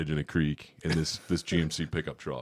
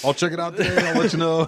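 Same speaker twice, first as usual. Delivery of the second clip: higher, louder teasing promise; playful excitement; 11 semitones higher, 8 dB louder than usual. Acted. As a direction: announce it like an eager treasure hunter. Joking about hunting the magazine.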